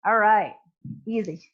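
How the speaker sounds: winded, catching breath between words; puffing after the set. Real, not acted. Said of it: "That's why I'm out of breath".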